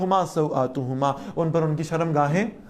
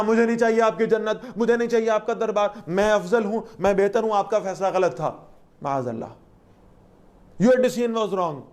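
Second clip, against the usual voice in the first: proud, raised, defiant refusal; defiant Satan; 6 semitones higher than usual. Retold or imitated. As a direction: throw the refusal back arrogantly. Satan voiced defying God.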